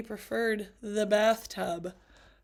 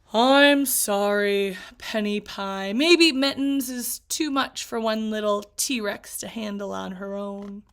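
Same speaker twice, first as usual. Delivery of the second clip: gentle parent; 3 semitones lower, 4 dB louder than usual. Acted. Dad gently telling his daughter the pet must go. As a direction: soften bad news for your child.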